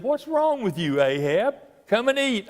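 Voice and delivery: a hint of a queen fussing over her husband; lightly voiced Jezebel. Preacher voicing Jezebel to Ahab.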